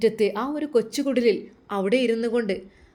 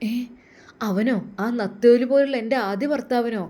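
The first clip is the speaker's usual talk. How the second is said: shocked disbelief; 4 semitones higher than usual. Acted. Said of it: "അവൾ ശരിക്കും ഞെട്ടി".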